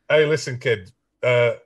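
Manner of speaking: put-on lightly thickened northern English accent; deadpan Sheffield accent for a joke. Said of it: "the more northern I get".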